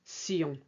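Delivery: Sion with an S sound, not shun; French sion ending. Shown as a demonstration. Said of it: "like an S".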